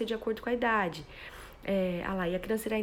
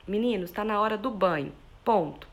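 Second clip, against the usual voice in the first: louder, firm and final, closing on "ponto"; firm announcement; 5 dB louder than usual. Shown as a demonstration. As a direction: state it as a fact, no room for debate. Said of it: "Eu tô sendo firme".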